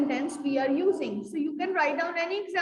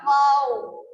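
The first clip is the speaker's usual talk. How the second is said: exclaimed wow; 6 dB louder than usual. Shown as a demonstration. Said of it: "For example".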